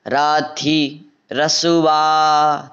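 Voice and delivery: राथी with a short थी, not lengthened; short thi. Shown as a demonstration. Teacher warning not to stretch the vowel, short thi. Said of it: "थी बड़ा नहीं करना है".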